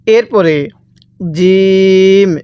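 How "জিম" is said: জিম pronounced firmly, long-held vowel; hard জিম. Shown as a demonstration. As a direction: press hard on জিম and stretch it slowly. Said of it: "জিমটা আমরা শক্তভাবে উচ্চারণ করব". (জিম শক্ত করে টেনে)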